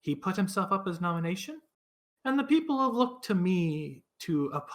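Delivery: put-on weary old townswoman; tired old voice. Olivessa explains the election.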